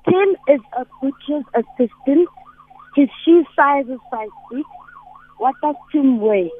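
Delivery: faint, far from the phone; speaking away from the mic; phone held away. Real, not acted. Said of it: "speak into the phone. We, we can barely hear you".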